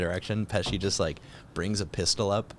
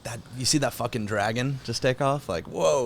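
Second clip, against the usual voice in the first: amazed moviegoer; 3 semitones higher than usual. Retold or imitated. Moviegoer marveling at a dragon, awestruck. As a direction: gape at the dragon taking off. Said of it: "You're just like".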